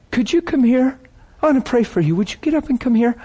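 high, polite summons; calling her forward. Retold or imitated. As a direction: call someone up from the crowd, pitched high. Calling a woman out of the crowd.

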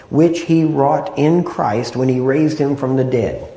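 slow and emphatic scripture reading; slow, deliberate reading. Real, not acted. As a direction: read the verse slowly, word by word. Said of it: "I know I'm talking slow and going through these slow".

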